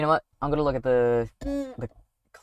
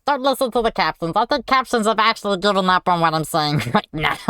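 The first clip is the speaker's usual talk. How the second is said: squeaky helium voice, like Stitch. Acted. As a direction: chipmunk voice after inhaling helium. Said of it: "this helium voice for ten minutes".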